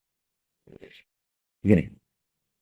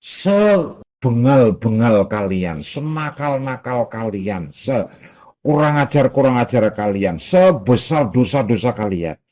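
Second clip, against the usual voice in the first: voicing Allah; slower than usual. Allah addresses sinners, slow emphasis.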